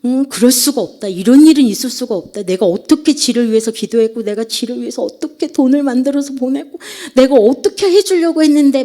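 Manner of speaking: re-enacted tearful complaint to God, pitch rising; 울먹이는 기도 재연. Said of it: "뒤에서 울면서". (울며 따지듯 점점 높게 하소연)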